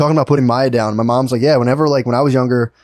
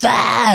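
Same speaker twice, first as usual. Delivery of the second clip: high-pitched "aah" outburst; kid's defiant yell; 8 semitones higher than usual. Retold or imitated. Comic telling of restraining kids, high yelled "aah". Acting out kids' defiant scream.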